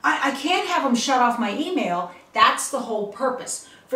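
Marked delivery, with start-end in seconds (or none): 0.0-2.1 high, breathless mock panic after a gasp; imitating a panicked user, pitch jumping up; flustered panic. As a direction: play the flustered user who just got scared. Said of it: "you'll get very flustered and go".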